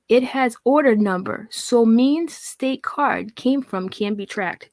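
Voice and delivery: slow, deliberate read of her text; reading her garble slowly; slow mock reading. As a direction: drag through her words. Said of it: "listen to how she writes".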